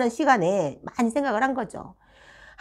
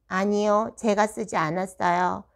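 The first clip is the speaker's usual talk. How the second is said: put-on slow monotone child's reply; level, drawn-out mock denial; deadpan denial; slower than usual. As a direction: imitate a pupil denying it tonelessly. Voices child stonewalling the teacher.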